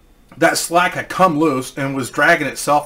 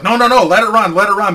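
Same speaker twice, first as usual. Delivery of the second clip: higher and louder insistent no no no; urgent protest; 6 semitones higher, 5 dB louder, faster than usual. Retold or imitated. Mechanic Dave stopping Steve from shutting the engine off, in a loud high protest. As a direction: cut him off and insist, louder.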